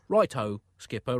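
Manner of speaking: a little downcast. Acted. Michelangelo accepting the Pope's dull request, a little downcast. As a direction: accept it with a touch of disappointment. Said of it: "a little downcast".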